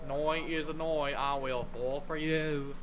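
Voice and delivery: mock Californian accent. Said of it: "apparently Californians say "noi".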